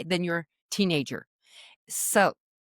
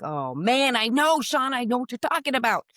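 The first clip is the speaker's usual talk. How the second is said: mock heartfelt agreement; 4 semitones higher than usual. Weary parent agreeing with the speaker, mock heartfelt. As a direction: groan into an emphatic "I know".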